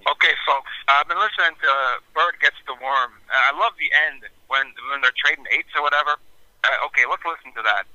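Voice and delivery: upbeat radio host patter. Shown as a demonstration. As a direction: talk like a late-night jazz DJ. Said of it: "give me your D J voice".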